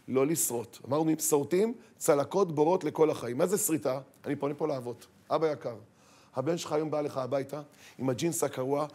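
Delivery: usual speaking voice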